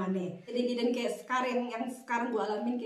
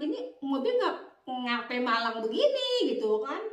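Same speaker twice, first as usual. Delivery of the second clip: grumbling to herself. Retold or imitated. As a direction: complain to yourself about the car behind. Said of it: "Gue ngedumel sendiri gitu kan". (menggerutu sendiri dengan kesal)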